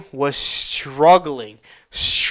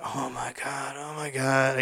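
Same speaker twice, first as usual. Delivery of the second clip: very soft murmur to yourself; hushed, acted despair; pained muttering; 2 semitones lower, 11 dB quieter than usual. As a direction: mutter it under your breath in dismay. Muttering to himself in pain.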